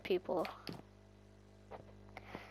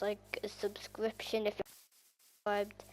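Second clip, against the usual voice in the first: slow whispered aside; 7 dB quieter, slower than usual. Real, not acted. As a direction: whisper it slowly like a secret. Whispered aside mid sentence.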